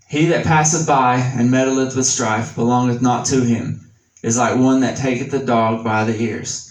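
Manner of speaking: scripture reading. Acted. Reads Proverbs in scripture voice.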